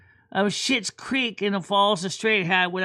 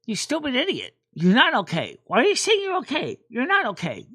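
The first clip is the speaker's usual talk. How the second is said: inner scolding voice; 4 semitones higher than usual. Retold or imitated. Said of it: "but then I realize this".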